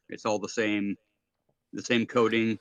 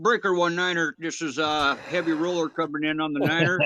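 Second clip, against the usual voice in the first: trucker calling over the CB radio; 2 semitones higher than usual. Acted. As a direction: play a good-old-boy trucker on the CB. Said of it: "I see you've been on the radio too".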